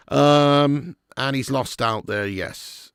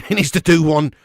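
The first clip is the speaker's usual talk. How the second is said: louder, with a laugh; louder laughing repeat of the verdict; emphatic repeat; 4 semitones higher, 8 dB louder than usual. Shown as a demonstration. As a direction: hammer the verdict home with a laugh.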